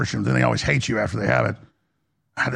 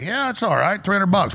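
mock casual; 6 semitones higher than usual. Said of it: "I was like".

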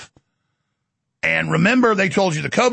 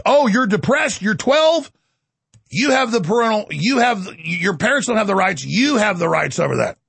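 mock official. Voicing state officials to kids.

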